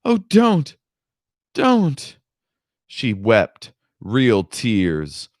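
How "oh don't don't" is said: high frightened shriek. Acted. Woman fending off Shad, shrieking high. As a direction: shriek in panic for him to stop. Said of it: "She shrieked".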